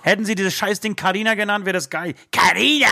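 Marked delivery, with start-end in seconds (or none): 2.3-2.9 higher, louder call. Acted. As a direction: call the name across the room. Calling the name out loud.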